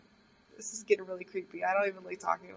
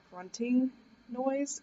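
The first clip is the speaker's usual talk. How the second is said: slow grunting noise; 4 semitones higher, much slower than usual. Retold or imitated. Scene: retelling the dream noise to viewers, slow mock grunt. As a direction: copy the slow grunting heard in the dark. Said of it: "this whole grunting thing".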